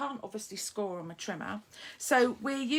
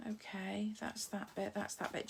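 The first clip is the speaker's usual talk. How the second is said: softer whispered counting under breath; 9 dB quieter than usual. Real, not acted. Crafter checks her card pieces to herself, whispering. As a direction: whisper it to yourself while sorting.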